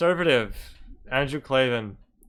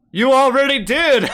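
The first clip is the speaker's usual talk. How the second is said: mocking laugh; 11 semitones higher, 9 dB louder than usual. Real, not acted. Heckler laughing loudly at the speaker's opening joke. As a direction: burst out loud and high, laughing at him.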